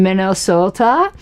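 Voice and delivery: badly faked Minnesota accent; terrible Minnesota accent. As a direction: put on a hokey Minnesota accent. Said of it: "That was a terrible accent".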